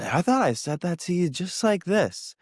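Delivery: lightly hammed-up innocent calm; mock calm voice. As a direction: put on an exaggeratedly calm, high-pitched voice. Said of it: "in a really calm voice".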